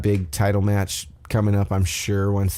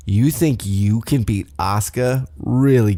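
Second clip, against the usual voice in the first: mildly catty imitation; retold catty challenge, pushed on the last word; lightly mock a rival's doubt; 2 semitones higher, 4 dB louder than usual.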